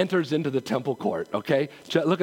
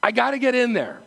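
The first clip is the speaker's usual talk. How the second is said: eager psalmist; 4 semitones higher than usual. Retold or imitated. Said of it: "he's saying is".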